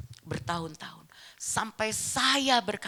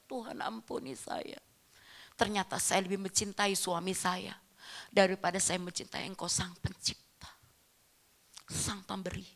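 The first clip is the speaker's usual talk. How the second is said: penitent prayer; 6 dB quieter than usual. Retold or imitated. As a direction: confess it quietly to God, pausing between phrases. Retold prayer of repentance to God. (doa pertobatan yang lirih)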